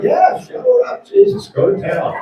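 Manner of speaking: very high-pitched mock female voice; imitated woman's reply. The movie girl telling him to shower, high mock voice. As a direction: pitch it way up, mimicking her. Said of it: "But she was like".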